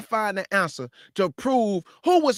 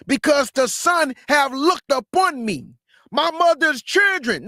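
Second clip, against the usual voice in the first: loud declaiming of the verse; scripture reading; 4 dB louder than usual. Acted. Preacher reading verse five aloud to the crowd, declaiming. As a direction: proclaim each line to the street.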